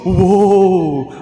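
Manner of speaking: "Woe" called out loud in warning; loud warning cry. Shown as a demonstration. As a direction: shout "Woe" like an alarm. O, sabihin mo.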